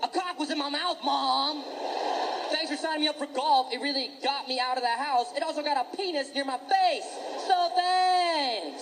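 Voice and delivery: put-on high, breezy kid voice ending in a shout; jaded kid. Kid thanking mom for golf, high and breezy. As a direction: chirp the thanks like an unbothered kid.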